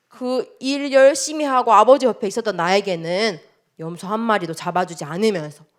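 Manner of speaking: mildly indignant, with emphatic bursts; acted angry complaint. Elder son complaining to his father, mildly angry. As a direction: protest like a wronged son, lightly acted. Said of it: "이렇게 아버지께 화를 내면서 이야기했어요".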